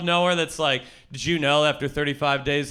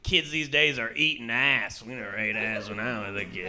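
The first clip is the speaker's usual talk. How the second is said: grumpy grandpa; 5 semitones lower, 6 dB quieter than usual. Retold or imitated. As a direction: scoff at the kids like a disgusted grandpa. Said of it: "my grandpa's always like".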